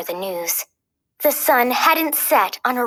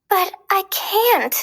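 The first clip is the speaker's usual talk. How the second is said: sad; 8 semitones higher than usual. A narrator's reading. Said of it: "Aurora said sadly".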